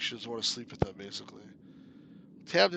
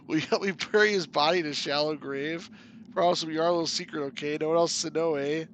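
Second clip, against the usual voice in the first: conspiratorial character; 2 semitones higher, 5 dB louder than usual. Acted. Plotting murder in character voice.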